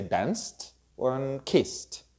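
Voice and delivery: "danced", "kissed" ending in a drawn S then T; S plus T ending. Shown as a demonstration. Teacher models S words in past tense, S plus T ending. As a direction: slowly sound out "danced" and "kissed" with final T. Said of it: "the sound of the letter S".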